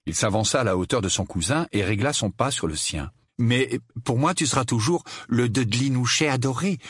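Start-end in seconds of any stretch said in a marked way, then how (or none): 3.4-6.8 raised, sugary mockery; mock-affectionate teasing. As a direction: tease with a pet name. Harry teases his cousin. (moquerie faussement tendre)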